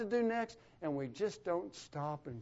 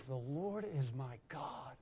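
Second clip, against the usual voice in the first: heartfelt; 3 semitones lower, 8 dB quieter than usual. Shown as a demonstration. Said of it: "because we've experienced it".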